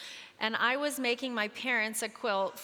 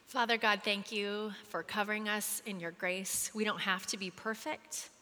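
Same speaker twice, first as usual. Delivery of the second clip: closing prayer. Real, not acted. Speaker praying over the moms in the group, earnest prayer. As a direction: pray it gently over them.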